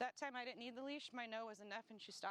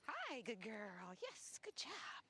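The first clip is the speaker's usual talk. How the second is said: dog praise; much slower than usual. Real, not acted. Trainer cooing slow praise to the dog. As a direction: coo it out slowly to the dog.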